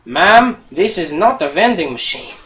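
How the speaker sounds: poor mock Australian accent; attempted Australian accent. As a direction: try a light Australian accent. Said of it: "in his thick Australian accent".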